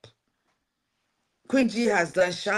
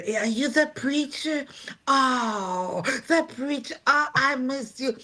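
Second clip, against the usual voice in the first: higher, delighted greeting; excited old client; 6 semitones higher than usual. Retold or imitated. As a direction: call out happily like an elderly woman glad to see her. Client greeting her as preacher.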